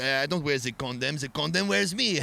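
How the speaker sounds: lightly mocking French accent; imitation of a pompous French guy. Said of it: "French people are weird as shit".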